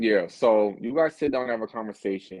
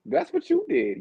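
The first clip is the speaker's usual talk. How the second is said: mocking impression. Mocking the guest's lip face.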